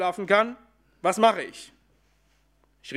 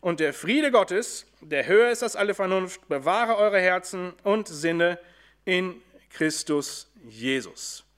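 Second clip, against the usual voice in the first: solemn scripture reading. Acted. Reads the Bible passage aloud.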